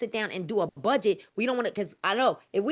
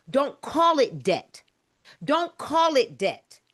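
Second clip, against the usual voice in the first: slow and firm; slower than usual. Shown as a demonstration. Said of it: "we're reprogramming our minds right now".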